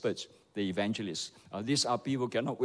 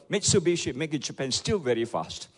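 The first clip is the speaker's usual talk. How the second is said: mock shout; 2 semitones higher than usual. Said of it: "he shouted".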